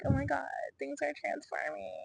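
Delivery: high-pitched, soft happy gush; lightly mocked past excitement. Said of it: "last episode I was very happy".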